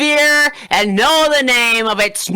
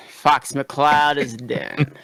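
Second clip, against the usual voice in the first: slow villain proclamation; 4 semitones lower, slower than usual. Acted.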